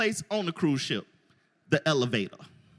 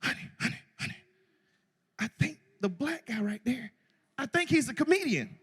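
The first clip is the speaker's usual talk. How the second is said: hushed whisper to his wife; nudging his wife about the comedian, whispered; whispering husband; 3 semitones higher, 5 dB quieter than usual. Retold or imitated. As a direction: lean in and whisper it secretly. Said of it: "Yeah, you know what I'm saying?".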